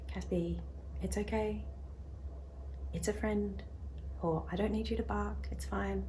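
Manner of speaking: soft, hushed reassurance; calm the dog down gently and softly; quiet soothing tone. Retold or imitated. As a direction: owner soothing her anxious puppy Caspian, soft and quiet. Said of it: "I use that quiet tone of voice".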